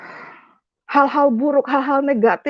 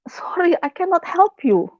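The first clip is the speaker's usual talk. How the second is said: mimicked refusal; 7 semitones higher than usual. Imitates foreign woman refusing in English.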